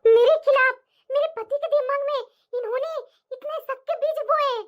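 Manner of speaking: rising angry complaint; indignant outrage. Acted. Wife to herself about the scheming sister-in-law, indignant. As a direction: let the betrayal boil over.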